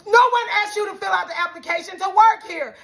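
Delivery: high-pitched, emphatic telling-off; heated confrontation. Retold or imitated. Customer telling off the rude manager, heated confrontation. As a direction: lay into her, retelling the argument. Retelling escalating quarrel with manager.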